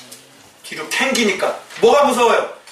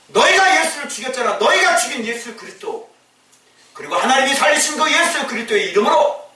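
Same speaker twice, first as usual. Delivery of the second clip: bold accusation; 3 semitones higher than usual. Retold or imitated. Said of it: "이 얘기를 지금 딱 하고 있는 거예요".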